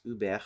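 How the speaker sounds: "über" with the final R fully sounded; fully pronounced R. Shown as a demonstration. Adapting a German word, final R fully pronounced. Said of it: "the R will be fully pronounced".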